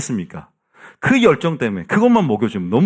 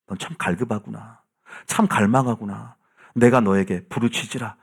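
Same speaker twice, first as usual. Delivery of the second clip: softer, lower, gently approving; tender divine reply; 3 semitones lower, 4 dB quieter than usual. Acted. God answering a thirsting worshipper, tenderly. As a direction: speak softly as the Lord, noticing someone's longing.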